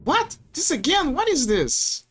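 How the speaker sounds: high startled what, then puzzled; bewildered, voice jumping up; confused shock. Acted. Voicing character confusion.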